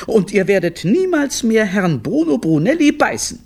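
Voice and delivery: high-pitched, admonishing mum; stern mother's high lecture; scolding mother. Acted. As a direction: lay down the law in a high voice. Mother scolds her children.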